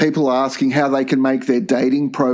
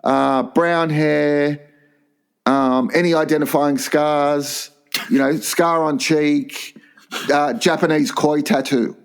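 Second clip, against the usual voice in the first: police profile; slower than usual. Shown as a demonstration. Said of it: "like, a police profile".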